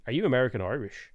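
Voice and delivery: imitated thick Irish accent, quick. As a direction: ask it like a local Irish lad. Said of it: "He said it in, like, a big, thick accent, big Irish accent".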